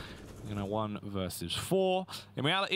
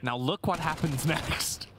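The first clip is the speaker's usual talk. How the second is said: clickbait video narrator; 3 semitones higher, slower than usual. Pretend.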